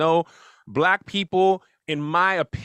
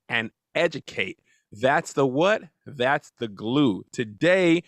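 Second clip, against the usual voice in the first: show host intro; slower than usual. Acted. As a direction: present the show to viewers like an announcer.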